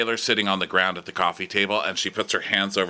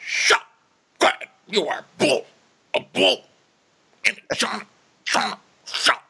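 high, loud hammed-up frantic yelling; mock shouting Austin; 3 dB louder than usual. Austin yelling at Craig about horseplay, high mock shout. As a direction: shriek it like a panicked castmate. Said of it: "So then Austin is like".

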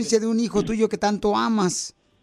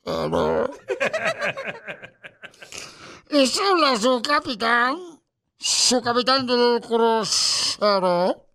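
ship captain; slower than usual. Acted. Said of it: "dice el capitán del barco".

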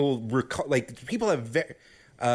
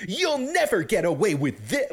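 generic hero voice; 5 semitones higher than usual. Retold or imitated. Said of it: "generic hero voice".

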